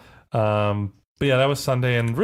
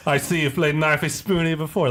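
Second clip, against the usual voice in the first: a light mock Australian accent, knifey with an oi sound; tossing off an Aussie Simpsons line; 4 semitones higher than usual. Friend quoting the Simpsons bit, light Australian accent. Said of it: "consistently say with an accent was Australian".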